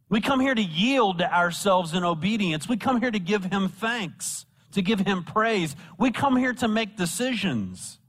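high-pitched, repeated pulpit cadence; emphatic preaching. Real, not acted. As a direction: drive each phrase down to its key word. Preacher exhorting the congregation.

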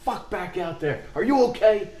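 high, stretched-out sideline holler; mock yell, pitch climbing; retold yell. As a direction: imitate someone yelling across a football field. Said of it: "he yells".

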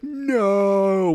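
mock drawn-out cry of anguish; Darth Vader. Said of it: "like, Darth Vader in Revenge of the Sith".

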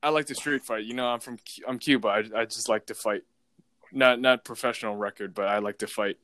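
lightly imitated Russian-accented driver; halting mock Russian accent, with pauses between claims. Driver boasting of street fights to passenger, Russian accent. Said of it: "it's a Russian accent".

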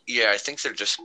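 talking around a pen held in the teeth; pen in mouth. Real, not acted. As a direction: speak with a pen between your teeth. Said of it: "my pen in my mouth".

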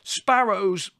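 loud, high outraged cry; bellowing. A narrator's reading. Son revealing his icebox discovery to mother, bellowing. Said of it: "bellowed Larry".

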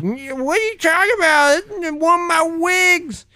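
put-on old lady voice. Martha character continues.

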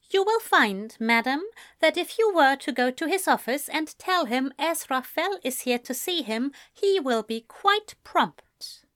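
put-on poised young man insisting politely; lightly voiced Ezra. Ezra correcting the receptionist.

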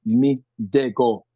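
slow, drawn-out Western Jamaican patois. Shown as a demonstration. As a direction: say it like someone from Montego Bay, slowly. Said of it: "Western Jamaican people would say".

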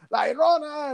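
high, panicked yell of the ghost's name; retold frantic yell. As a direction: cry it out in terror. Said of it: "yelling some shit".

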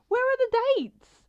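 high frantic yell; screaming. Retold or imitated. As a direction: scream it, exasperated. Re-enacts frantic search.

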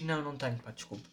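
mock shy refusal that trails off; imitating a timid apology. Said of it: "e depois diz".

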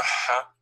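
a plain breathy English "ha"; English H sound. Shown as a demonstration. Teacher showing a student the missing sound, English "ha". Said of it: "doesn't exist".

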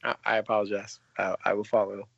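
low, meek apology; mock contrite. Cohost scolded for jumping ahead, answering low and sheepish. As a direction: play the scolded child, deep and sheepish.

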